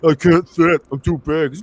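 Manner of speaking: lightly voiced helpless big soldier; mock a helpless, oversized reservist; big reserve soldier. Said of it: "great big fat reserve dude".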